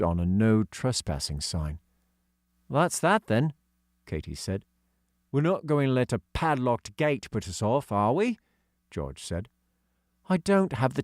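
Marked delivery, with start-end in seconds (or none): 2.7-3.5 put-on high girl's voice; young girl voicing; girl character voice. Katy voice. 5.3-8.4 put-on a touch higher for young George; hint of a kid's voice; lightly voiced schoolboy George; lightly voiced boy.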